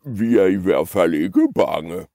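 lightly grumbled bluster; grumbling big goat. Acted. Big goat hiding his fear, lightly grumbled bluster. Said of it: "brummede den store bukke Bruse".

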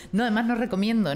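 laughing, a little quick. Real, not acted. The guest jokes about forced happiness, laughing. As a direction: talk through a laugh.

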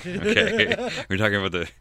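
real giggles breaking into the words; trying not to laugh. Real, not acted. Co-host attempting to say the minister's title, trying not to laugh. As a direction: struggle to get it out through laughter. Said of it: "let me get that out without laughing".

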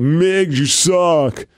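lightly imitated drunk heckle; mock heckle, stretched at the end; drunk heckler. Drunk fan taunting a wrestler mid-match, lightly imitated heckle. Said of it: "There's a drunk guy".

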